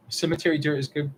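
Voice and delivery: talking through hiccups; hiccuping. Real, not acted. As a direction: hiccups breaking the words. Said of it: "I'm, like, hiccuping now".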